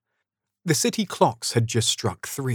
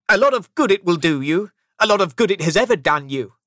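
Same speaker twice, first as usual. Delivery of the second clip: higher, louder sarcastic jab; scornful retort; 8 semitones higher, 6 dB louder, faster than usual. A narrator's reading. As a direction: scoff at your nephew's holiday. Scrooge scoffs at Christmas.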